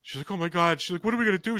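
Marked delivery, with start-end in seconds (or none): 0.3-0.8 higher-pitched mock alarm; freaking-out wife. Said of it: "She starts freaking out". 1.1-1.6 high-pitched mock panic; freaking-out wife. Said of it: "She starts freaking out".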